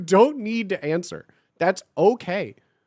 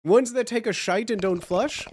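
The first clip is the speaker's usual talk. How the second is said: ordinary delivery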